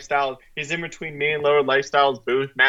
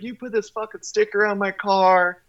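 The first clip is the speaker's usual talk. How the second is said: mock angry yell, pitched higher; retold yelling; 6 semitones higher than usual. Car owner berating Kyle at the booth, mock angry. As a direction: imitate an enraged car owner, lightly. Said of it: "he is yelling at Kyle".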